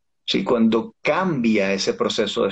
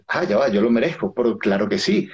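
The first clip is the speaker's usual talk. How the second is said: body's sceptical reply. Retold or imitated. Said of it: "tu cuerpo dice".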